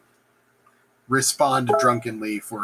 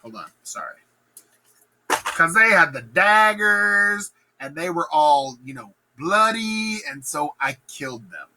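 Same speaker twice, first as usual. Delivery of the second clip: higher, slow, nervous casual; awkward excuse; 6 semitones higher than usual. Acted. Macbeth explaining to the lords, nervous awkward bluff. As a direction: bluff through it badly. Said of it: "Macbeth re-enters and announces".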